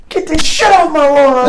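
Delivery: high, slow, drawn-out shout; imitated yell. Sergeant major ordering gear off his lawn, mock bellow. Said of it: "he yells".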